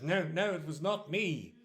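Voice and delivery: lightly acted flustered protest; anxious denial. Accused man denies it.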